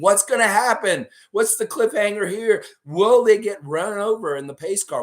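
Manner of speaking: dramatic teaser. Acted. Dramatic cliffhanger questions.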